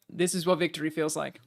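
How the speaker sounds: mock Kiwi victory speech; New Zealand accent. Shown as a demonstration. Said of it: "I'll say it in a New Zealander accent".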